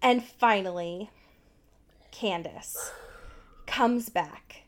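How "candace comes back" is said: whisper. Real, not acted. Dramatic retelling of sneaking.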